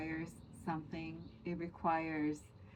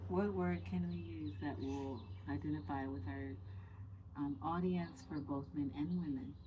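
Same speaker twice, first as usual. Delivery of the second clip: soft and low, barely projected; quiet low voice; 3 semitones lower, 6 dB quieter than usual. Real, not acted. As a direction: speak softly, close to the mic. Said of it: "your sexy voice is so low".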